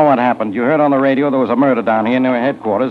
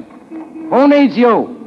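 mocking sing-song; 11 semitones higher, much slower than usual. Mocking brush-off of a rival.

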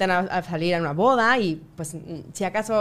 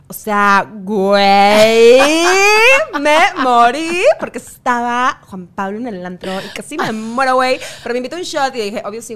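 Mexican fresa accent; 8 dB louder than usual. Shown as a demonstration. Answering with the Mexican equivalent of a fresa, Mexican fresa accent. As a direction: do a Mexican fresa party girl. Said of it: "Sí es el equivalente de".

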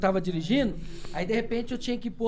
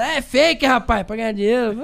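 mocking the doubters; 2 semitones higher, 5 dB louder, slower than usual. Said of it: "é mais engraçado os caras".

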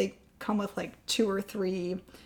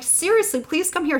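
high, louder mock plea; insistent calling; 10 semitones higher, 6 dB louder than usual. Wife urging husband to come, insistent calling. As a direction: imitate an urgent call down the stairs. Retold urgent call down the stairs.

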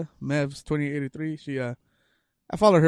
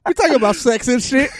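retold cheeky reply; 9 semitones higher, 8 dB louder than usual. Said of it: "I said".

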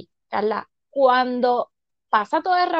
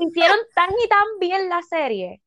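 al borde del llanto; 5 semitones higher than usual. Real, not acted. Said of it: "voy a llorar otra vez".

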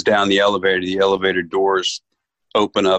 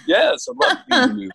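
high and quick, a retold eager acceptance; rushed, delighted retold reply; eager yes; much faster than usual. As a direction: jump at the offer without hesitating. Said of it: "I said".

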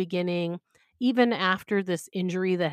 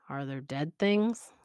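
wary; 4 semitones lower, slower than usual. Acted. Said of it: "Louis asks warily".

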